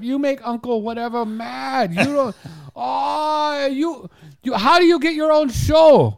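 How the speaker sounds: high, loud berating Asian uncle; Asian accent. Retold or imitated. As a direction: scold in a heavy Asian accent. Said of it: "He calls himself".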